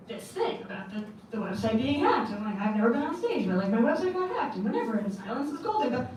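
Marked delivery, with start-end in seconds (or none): 2.6-6.1 defiant declaration. Retold or imitated. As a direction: declare it like a rallying cry. Quoting own defiant stage speech.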